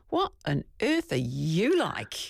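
slow, drawn-out mock bewilderment; baffled dog. Host imagining the dog watching its owner, mock baffled. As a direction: lightly voice a dog puzzled by its owner. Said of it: "imagine the dog standing there going".

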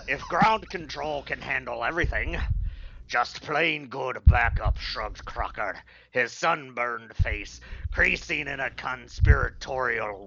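lightly voiced pirate reading; half-hearted mock pirate voice. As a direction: read the book with a hint of pirate. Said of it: "and read it as a pirate".

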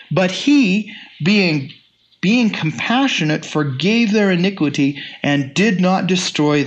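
measured, lifted reading of the psalm; solemn scripture reading. Acted. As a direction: read the verses out to the congregation. Reads scripture aloud.

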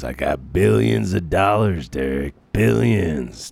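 lightly voiced boastful billionaire superhero; a loud, hinted Will Arnett-style hero brag; Batman. Shown as a demonstration. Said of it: "Will Arnett, you know, trying to do, uh, Batman".

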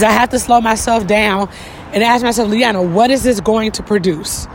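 panting slightly between phrases; out of breath while walking uphill. Real, not acted. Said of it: "if I'm out of breath right now".

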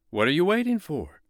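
high, eager snowman. Acted. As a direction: hurry the boy up. Snowman urges boy.

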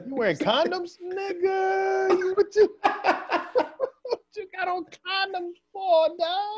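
high-pitched, cracking up through the words; helpless laughter stretching out the words; laughing incredulously. Real, not acted. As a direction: barely get the question out for laughing. Cracking up at friend's joke.

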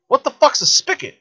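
high incredulous question; imitating wife's disbelief. Wife hearing a strange word: high incredulous question. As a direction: throw it up high, baffled. Voices Leanne's confused reaction.

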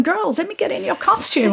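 high-pitched showbiz star impression; Liza Minnelli. Star to the dancers about their costume, imitated high. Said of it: "She's like, she's going".

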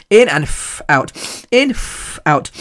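words between blown-out breaths; demonstrating paced calming breaths; breathing exercise. Retold or imitated. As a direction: puff out audibly between words.

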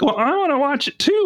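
put-on high whining child; whiny kid voice. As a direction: whine like a kid wanting in. Kids quoted whining.

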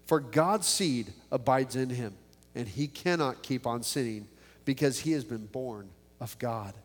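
measured Bible reading voice; scripture reading. Acted. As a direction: read the verses with steady weight. Reads scripture before the prayer.

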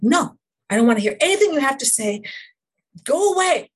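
offended self shutting someone out, mock brush-off; dismissive refusal. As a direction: wave them off with crossed arms. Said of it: "I cross my arms and I go".

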